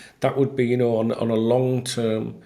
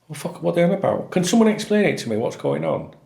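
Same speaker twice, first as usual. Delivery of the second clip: high, loud and rushed disbelief; real exasperation; frustrated rant; 5 semitones higher, 3 dB louder than usual. Real, not acted. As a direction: demand an explanation. Frustrated rant about panic buying.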